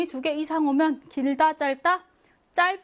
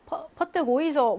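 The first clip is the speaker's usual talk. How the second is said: Gyeongsang dialect; 3 semitones higher than usual. Retold or imitated. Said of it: "경상도 하면은".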